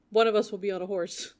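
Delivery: chuckling through the line; reading it while giggling; laughing quote. Retold or imitated.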